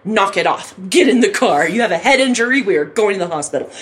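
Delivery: brisk, no-nonsense orders; retold matter-of-fact command; all business. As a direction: take charge firmly, imitating a bossy friend. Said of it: "she's all business".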